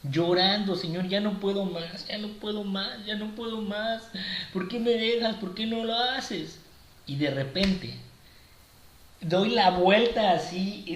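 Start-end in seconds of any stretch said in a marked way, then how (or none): 0.8-6.6 higher, pleading cry to the Lord, understated; begging God to rescue him; retold tearful prayer. Lightly acted crying prayer to God, higher. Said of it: "iba llorando".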